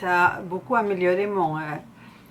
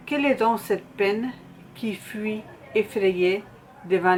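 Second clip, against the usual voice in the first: poem recitation. Acted. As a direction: recite line by line, letting each phrase settle.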